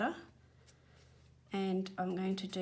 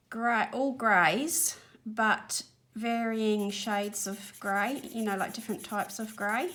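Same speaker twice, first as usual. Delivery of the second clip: out of breath. Real, not acted. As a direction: talk while catching your breath. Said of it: "I'm a little bit out of breath".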